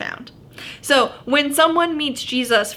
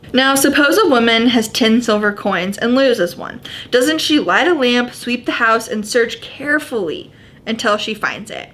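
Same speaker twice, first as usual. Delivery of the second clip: measured Bible reading voice; scripture reading. Acted. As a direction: read the passage clearly to the group. Reads Luke fifteen aloud.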